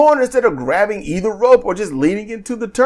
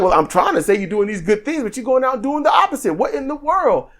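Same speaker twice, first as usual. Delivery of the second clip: higher, quicker incredulous quote; mock bewilderment; 4 semitones higher, 3 dB quieter, faster than usual. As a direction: act out baffled disbelief, voice climbing. Acted-out reaction to Trump's behavior.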